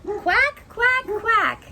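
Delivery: high, punchy quacks; happy duckling. Acted. Ducky off to find friends to play, happy high quacking.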